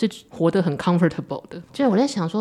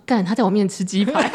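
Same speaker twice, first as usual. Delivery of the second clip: laughing; 3 semitones higher than usual. Retold or imitated. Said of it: "我说".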